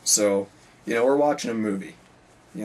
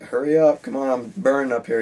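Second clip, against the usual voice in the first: higher, louder urgent hurry-up; urgent plea; 3 semitones higher, 4 dB louder than usual. Retold or imitated. Teacher burning from acid, urging student to hurry with towels. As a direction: hurry them along from the front of class.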